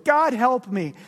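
a ghost begging God; anguished cry. Acted. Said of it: "cries the ghost".

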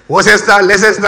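WORCESTER and LEICESTER with every syllable sounded; comic "-sess-tah" endings on WORCESTER, LEICESTER; mispronounced as spelt. Shown as a demonstration. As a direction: say "Worcester, Leicester" naively as written. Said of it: "that's another funny word".

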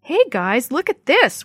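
excited call for the group to come look; shouted. A narrator's reading. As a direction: shout to the others. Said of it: "Willie shouted".

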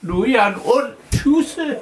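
high toad voice with kvak; croaking toad wizard. Acted. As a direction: complain while croaking.

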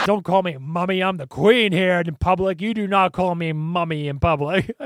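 emphatic mock reprimand from a queen; mock royal scolding. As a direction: scold indignantly as an annoyed monarch, half laughing. Voices the annoyed Queen scolding.

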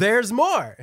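high loud catchphrase through laughter; laughing pitchman. Retold or imitated. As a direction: laugh while selling it hard.

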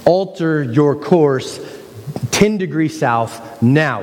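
slow, firm, irritated radio order; upset captain. Retold or imitated. Ship captain warning the other vessel, slow and irritated. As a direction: spell out the order, losing patience. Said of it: "The captain gets upset".

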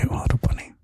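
ordinary delivery

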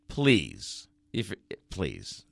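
fading pleading please; mock begging. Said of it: "and I'm begging".

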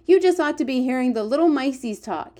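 rapt, animated character voice; excited giant. Acted. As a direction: marvel aloud as a storybook giant. The giant's lines in a read story.

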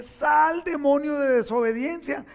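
loud high command; casting out the demon. Retold or imitated. Father belting the demon out of his son, loud command. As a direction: order the demon out, full voice. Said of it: "Y le dice".

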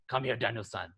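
lightly voiced stern mentor, softly; quiet, serious summons to a pupil; serious Mister Miyagi line. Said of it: "it gets really serious".

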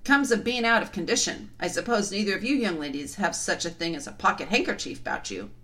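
puffing giant voice; big winded giant puffing; out of breath. Acted. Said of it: "puffing like the largest railway engine".

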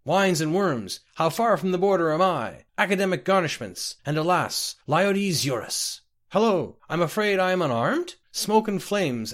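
high-pitched, excitable nonsense chatter; chattering mimic creatures. A narrator's reading. Winged mimics whirl round the poor clerk, chattering nonsense. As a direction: parrot phrases in a high, squawky singsong. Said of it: "they began chattering what he now understood to be perfect nonsense".

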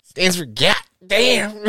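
high, drawn-out mock explanation; mimicking co-host. Host mimicking co-host explaining her slang, high and mocking. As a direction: stretch it out slowly in high-pitched mockery. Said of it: "She's like".

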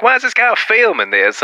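high-pitched mock complaint; imitated objecting worker. Sandwich worker complaining about the camera, imitated high voice. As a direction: pitch it well up like a put-out server.

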